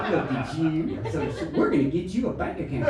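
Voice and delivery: lightly put-on Southern American accent; mock Southern wife. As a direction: coo condescendingly with a hint of the South. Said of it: "she's suddenly from the South".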